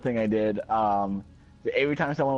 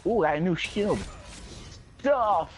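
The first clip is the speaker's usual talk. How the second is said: excited shout; 7 semitones higher than usual. Real, not acted. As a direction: blurt it out thrilled. Excited over new gaming loot.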